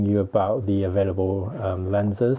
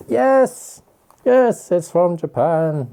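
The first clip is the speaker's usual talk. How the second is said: high excited cheer; 10 semitones higher, 8 dB louder, much slower than usual. Real, not acted. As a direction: cheer it out happily. Excited to find Japan label.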